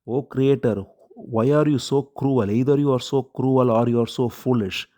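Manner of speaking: lightly voiced lament, pleading with the creator; queen mourning her dead son, mildly tearful cry. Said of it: "crying out".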